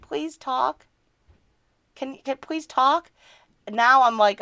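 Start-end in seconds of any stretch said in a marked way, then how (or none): 0.0-3.1 mock pleading. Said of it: "And I did do that many times".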